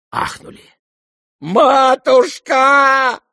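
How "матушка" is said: long drawn-out high wail of Матушка; wailing cry. Acted. Lebedev wailing at the burning money, a long high howl. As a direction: howl Матушка like all is lost. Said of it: "всё ещё вопил Лебедев".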